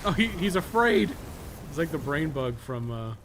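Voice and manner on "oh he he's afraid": loud, high, delighted taunt; excited jeering cry; gleeful mocking shout. Real, not acted. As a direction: crow over the scared enemy. Mocking a fleeing boss.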